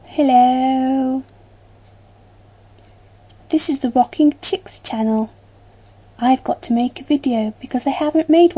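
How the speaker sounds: silly put-on telephone voice, long held hellos; talking like a nutter. Shown as a demonstration. Vlogger opening with a daft telephone voice. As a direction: draw out the greeting daftly. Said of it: "talking like a complete nut".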